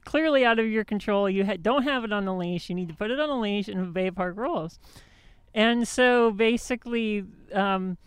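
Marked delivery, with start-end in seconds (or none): 0.0-4.8 huffy lecture to the dog owner; angry retort. Retold or imitated. Retelling scolding the dog owner, mildly angry. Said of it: "and so I got mad".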